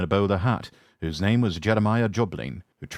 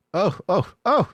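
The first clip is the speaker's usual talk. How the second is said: high wailing trucks; 12 semitones higher, 4 dB louder than usual. Acted. Trucks complaining as James backs down, high wail. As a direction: cry out high like sulky trucks. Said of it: "said the trucks".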